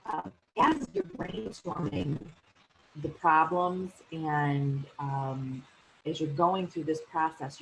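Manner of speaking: audio cutting in and out; choppy broken connection sound; tape dropouts. Real, not acted. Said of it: "my audio keeps cutting out".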